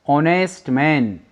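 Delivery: slow "ऑनेस्ट" starting on an O; silent H. Shown as a demonstration. Teacher shows the vowel start, slow "ऑनेस्ट" with silent H. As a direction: spell out "ऑनेस्ट" slowly, without the H. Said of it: "ओ उच्चारण आ रहा है".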